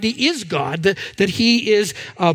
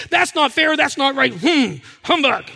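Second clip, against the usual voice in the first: mock grumble; 3 semitones higher than usual. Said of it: "political pieces?".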